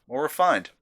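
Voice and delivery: jokey bad German accent on a beer review; mock German accent. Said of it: "Sorry, terrible accent again".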